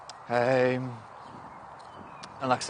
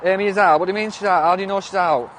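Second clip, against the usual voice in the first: higher, insistent surprise; incredulous questioning; 7 semitones higher, 6 dB louder than usual. Real, not acted. Streamer questions a claim that Amy is out, incredulous. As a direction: press for answers, pitched up.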